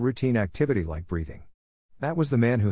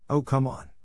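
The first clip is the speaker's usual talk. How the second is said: exasperated, higher-pitched letdown; fierce disappointment; 5 semitones higher than usual. A narrator's reading. Boy whose admirer admits not knowing him, disappointed. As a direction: protest in let-down disbelief. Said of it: "said with fierce disappointment".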